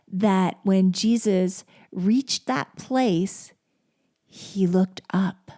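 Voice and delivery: slow, hushed scripture reading. Shown as a demonstration. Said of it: "I love these words".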